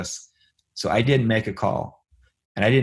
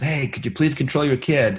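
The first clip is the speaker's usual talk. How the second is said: put-on upset man's voice, higher pitched; 5 semitones higher than usual. Retelling a man at a football game complaining: imitating an upset man. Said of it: "Really upset at Nathan".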